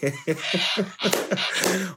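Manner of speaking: real laugh; teary laugh. Real, not acted. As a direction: laugh till it almost sobs. Laugh with crying tone.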